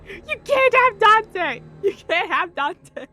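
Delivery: loud, high, slow whiny plea; clingy kid. Retold or imitated. Kid clinging to the villain's leg, loud whiny plea. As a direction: beg like a child hugging a leg. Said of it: "clinging to Ricardo's leg".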